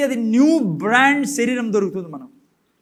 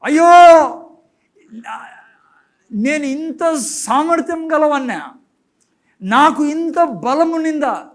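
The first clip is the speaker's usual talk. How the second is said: mock lament; 2 semitones higher, 4 dB louder than usual. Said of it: "ఎందుకు ఏడుస్తానంటే".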